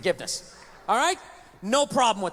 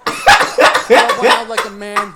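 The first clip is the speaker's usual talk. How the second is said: slow, louder through laughter; laughing punchline; 3 semitones lower, 12 dB louder, much slower than usual. Real, not acted. Punchline while laughing at his own joke. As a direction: drag it out, cracking up.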